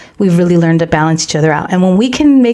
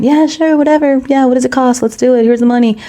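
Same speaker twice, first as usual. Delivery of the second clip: imitating husband; 4 semitones higher than usual. Voicing husband agreeing.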